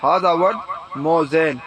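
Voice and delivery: slow teaching demo. Shown as a demonstration. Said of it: "پھر آپ بولیں گے".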